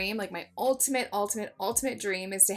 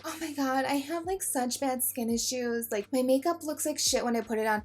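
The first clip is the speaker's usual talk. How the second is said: lightly voiced whining viewer, higher pitch; mock complaint in a raised voice; complaining viewer; 4 semitones higher than usual. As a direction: mimic a viewer fretting over bad skin. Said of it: "A lot of people are wondering".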